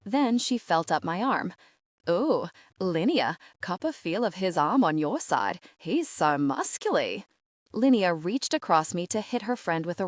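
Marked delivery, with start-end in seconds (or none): 2.1-7.2 put-on teasing Australian accent, slowing down; cheeky thick Australian accent. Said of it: "thick Australian accent".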